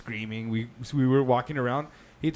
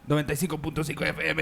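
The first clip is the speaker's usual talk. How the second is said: radio DJ call; 4 semitones higher, faster than usual. Retold or imitated. Imitating DJ station call.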